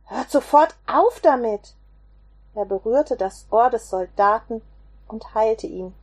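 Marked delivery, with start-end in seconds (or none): 0.1-1.8 much higher and louder on Stopp, then firm; commanding shout. Acted. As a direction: cut the fighting off with a sharp call. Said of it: "Aber Jesus rief". (lauter, gebieterischer Ruf)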